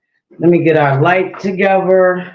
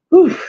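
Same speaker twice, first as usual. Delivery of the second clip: out-of-breath gasp; 9 semitones higher than usual. Real, not acted. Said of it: "The girl out of breath running around".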